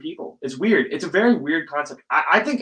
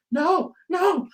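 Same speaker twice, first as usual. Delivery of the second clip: very high-pitched squeaky refusal; mock protest; 4 dB louder than usual.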